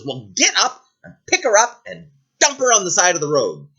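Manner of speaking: haughty, impatient command; bossy princess. Acted. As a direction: order a servant about. Princess orders driver about.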